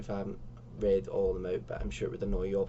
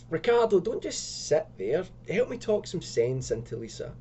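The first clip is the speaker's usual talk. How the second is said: exasperated plea; 6 semitones higher than usual. Acted. Lisa pleading.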